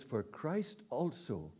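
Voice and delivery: scripture reading. Acted. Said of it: "He says".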